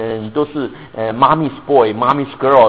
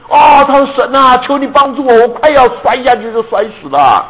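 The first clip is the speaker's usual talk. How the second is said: pleading for help; 9 semitones higher, 6 dB louder than usual. Retold or imitated. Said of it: "然后他说".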